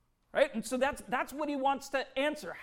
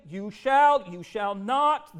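commanding voice of God; 6 dB louder, slower than usual. Acted. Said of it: "you will hear God say".

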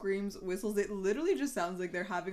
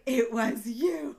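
slow accusation; 5 semitones higher, 7 dB louder, much slower than usual. Retold or imitated. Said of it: "I was like".

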